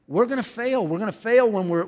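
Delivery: say it like you mean it. Shown as a demonstration. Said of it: "Say it like you mean it".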